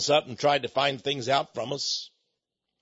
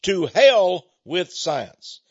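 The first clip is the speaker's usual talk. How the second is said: mocking quote; 3 semitones higher, 4 dB louder, much slower than usual. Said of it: "They say".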